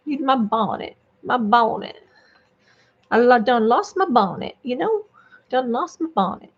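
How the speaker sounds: lightly played Southern belle; Southern lady. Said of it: "I'm a Southern lady".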